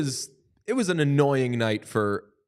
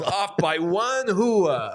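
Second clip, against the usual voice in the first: laughing; 6 semitones higher, much slower than usual. Real, not acted.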